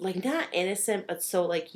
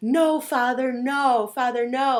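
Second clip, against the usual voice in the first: high, loud, stretched-out screaming; 7 semitones higher, 7 dB louder than usual. Retelling a film scene where Mary Cat is carried up the stairs: imitating Mary Cat screaming. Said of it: "and she's screaming".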